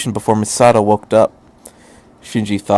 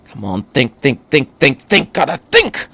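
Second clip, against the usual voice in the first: growing urgency; 3 semitones higher than usual. A narrator's reading. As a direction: push yourself to think, faster each time. Doctor pacing, thinking desperately.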